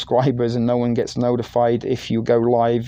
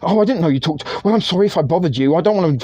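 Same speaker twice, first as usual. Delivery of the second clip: higher, quick, a touch of mock jealous girlfriend; viewer's girlfriend answering sharply, mock jealous and a bit higher; 5 semitones higher, faster than usual. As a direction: lightly play the miffed girlfriend, rushing the apology. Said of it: "it was the jealous girlfriend".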